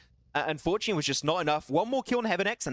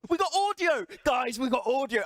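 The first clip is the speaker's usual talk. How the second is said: much higher, excited cry of relief; triumphant shout; 8 semitones higher than usual. Real, not acted. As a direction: streamer thrilled the audio works. Sound finally fixed, celebrating.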